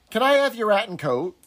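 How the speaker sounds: mock thick northern English accent; imitating a northern English accent. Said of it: "in that really, really thick northern accent".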